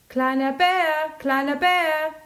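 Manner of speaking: high, loud repeated call. Acted. Big bear searching outside, calling loudly. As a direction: shout for him twice, searching. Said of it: "rief der große Bär".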